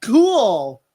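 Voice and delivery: high put-on voice; mock viewer voice. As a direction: lampoon a bored viewer.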